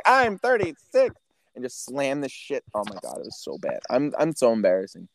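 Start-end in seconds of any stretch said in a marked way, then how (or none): 0.0-1.1 high, slow and loud: I'm thirty-six; indignant exclamation. Retold or imitated. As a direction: proudly call out your age while slamming down your ID. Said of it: "I was like".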